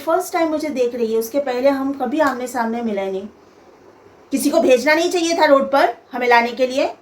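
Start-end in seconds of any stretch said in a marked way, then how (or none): 4.3-6.9 a hint of a curt, haughty scolding; mother-in-law greeting her future daughter-in-law with a snide, mildly imitated reproach; rude mother-in-law tone. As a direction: mimic the mother-in-law's sharp attitude, mildly. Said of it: "ये tone था मेरी सास का".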